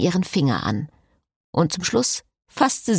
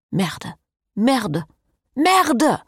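rising curses; 5 semitones higher, much slower than usual. A narrator's reading. Priest cursing his situation, muttered then shouted. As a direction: start under your breath and explode on the last one.

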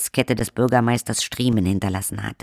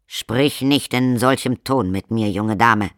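slow, stern reprimand; stern father; 4 dB louder than usual. Acted. Count sternly rebukes his daughter Lacrimosa. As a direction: scold the daughter, slowly. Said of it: "sagte der Graf streng".

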